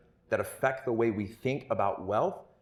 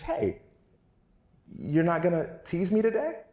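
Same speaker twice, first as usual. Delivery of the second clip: put-on kid's voice; 8 semitones higher than usual. Kid voiced in story.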